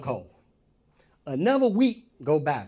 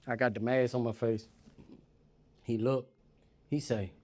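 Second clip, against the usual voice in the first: ordinary delivery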